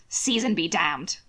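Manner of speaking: a slow, low whispered curse. Acted. Mason at the breakfast table, muttering his curse in a whisper. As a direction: breathe the curse out under the breath. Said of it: "Mason's closing curse".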